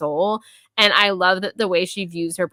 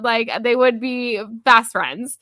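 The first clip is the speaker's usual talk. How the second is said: excited; 6 semitones higher than usual. Real, not acted. Gushing about characters meeting.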